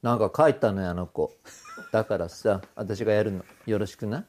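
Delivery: lightly voiced, low diva-like singer; 三河 impression. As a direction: quietly take over as the star. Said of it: "本当に似てますね。". (低めで落ち着いた大物歌手のものまね)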